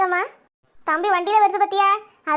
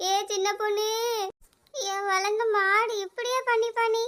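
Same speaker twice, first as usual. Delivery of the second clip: mourning lament. Acted. Mourning lament over the body.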